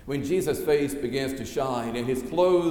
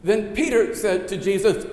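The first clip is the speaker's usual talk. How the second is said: measured, solemn reading of the Gospel aloud; scripture reading; 3 dB louder than usual. Acted. Pastor reading the Gospel lesson to the congregation, solemn reading voice.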